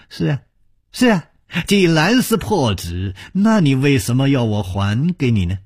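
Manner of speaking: put-on a cunning old villain pressing; 狡猾的高声反问; sly villain.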